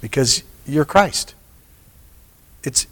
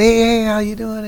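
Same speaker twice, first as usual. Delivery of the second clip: bright high friendly hello, lifted well above her usual pitch; a sunny, pitched-up greeting; cheerful greeting; 8 semitones higher, 3 dB quieter than usual. Retold or imitated. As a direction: call out a happy hello to an old friend. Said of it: "I said".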